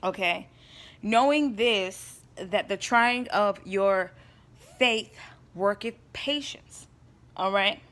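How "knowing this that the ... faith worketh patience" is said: slow, solemn reading of verse; scripture reading. Acted. Reading James one two to her viewers, slow and solemn. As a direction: read each word of the verse slowly, like a preacher. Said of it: "and James one two says".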